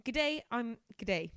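hammed-up Australian greeting; horrendous Australian. The speaker introducing herself, in a horrendous Australian accent. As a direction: put on a bad Aussie accent. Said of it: "Horrendous Australian".

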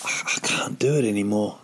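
whispered mock defeat; giving up. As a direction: act defeated, barely voiced. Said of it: "where you give up on it".

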